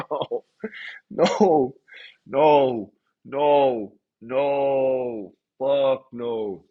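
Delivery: drawn-out, spaced-out mock refusals; hammed-up dismayed refusal; emphatic refusal. Acting his refusal to boss.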